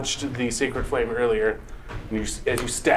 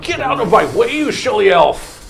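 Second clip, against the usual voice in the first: slushy sh for s; 6 semitones higher, 5 dB louder than usual. Acted. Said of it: "is gonna be like".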